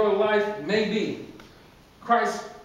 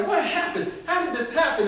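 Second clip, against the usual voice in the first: baffled questioning; 5 semitones higher than usual. Acted. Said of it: "he's questioning everybody".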